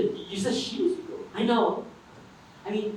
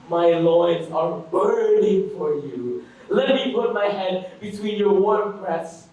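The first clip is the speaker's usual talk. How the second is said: coached love declaration; 4 semitones lower, 3 dB louder than usual. Acted. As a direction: model an over-the-top seduction for your friend. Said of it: "here's what you say. Listen carefully".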